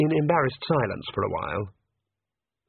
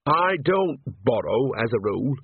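firmly. Acted. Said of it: "said Nanny firmly".

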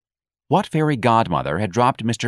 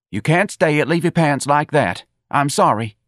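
high-pitched, agitated insistence; flustered scolding; 7 semitones higher, 4 dB louder than usual. A narrator's reading. Office manager tells underdressed employee off, flustered. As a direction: scold her in a raised, fretful pitch.

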